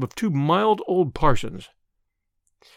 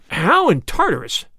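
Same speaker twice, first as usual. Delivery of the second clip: slower, louder exclamation; cry; 3 semitones higher, 4 dB louder than usual. Acted. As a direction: exclaim in disbelief. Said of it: "cried Flambeau".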